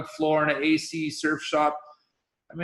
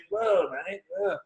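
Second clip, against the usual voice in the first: impressed Australian whoa, pitched up; Aussie accent; 5 semitones higher than usual. Retold or imitated. Aki reacting to the brother's pay, Aussie accent. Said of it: "This is my best Aussie accent".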